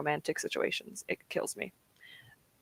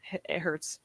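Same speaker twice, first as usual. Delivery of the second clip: whispered hurt; 2 semitones lower, 9 dB quieter than usual. Real, not acted. Feeling for lost loved ones.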